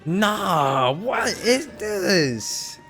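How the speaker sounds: ordinary talk, nothing marked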